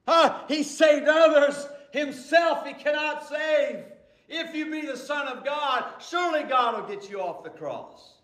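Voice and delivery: scornful mock challenge. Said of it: "They mocked him".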